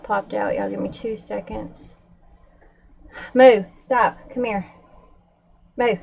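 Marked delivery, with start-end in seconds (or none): 3.3-6.0 sharp raised call, a little higher; telling the dog off loudly; scolding call to the dog. Real, not acted. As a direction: stop the dog with a firm loud call.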